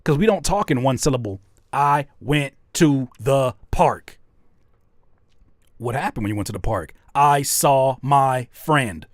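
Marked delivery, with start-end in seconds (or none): 1.7-4.2 slow one-syllable demo line. Shown as a demonstration. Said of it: "those are one syllable words". 7.1-9.1 slow one-syllable demo line. Shown as a demonstration. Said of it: "those are one syllable words".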